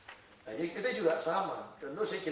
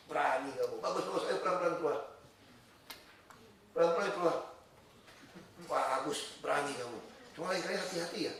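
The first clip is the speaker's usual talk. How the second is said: softer, measured praise; calm fatherly reassurance; 4 dB quieter than usual. Retold or imitated. Father to daughter stuck in the ditch, calm reassurance. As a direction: coax gently as a calm father.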